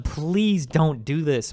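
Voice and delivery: loud, drawn-out plea; each word stretched in exasperated appeal; pleading. Retold or imitated. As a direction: beg them slowly and emphatically. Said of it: "I tell them".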